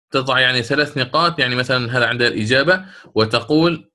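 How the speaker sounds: usual speaking voice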